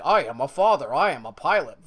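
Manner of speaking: a touch of a manly, serious father; masculine dad voice. Retold or imitated. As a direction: lightly put on a macho pilot dad. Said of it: "who's got a very, like, masculine, like, ... voice".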